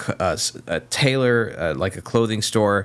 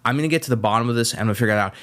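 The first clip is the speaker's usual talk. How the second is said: mock livid; much faster than usual. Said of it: "the guy was, like, livid".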